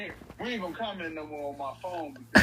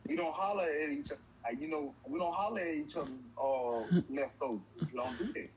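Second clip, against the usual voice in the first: mock serious lecture; 2 semitones lower than usual. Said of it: "let me go ahead and get serious".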